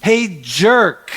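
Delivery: hammed-up shout of insults; playful pretend yell; mock yell. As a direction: call out like you're taunting him. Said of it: "I would have probably yelled".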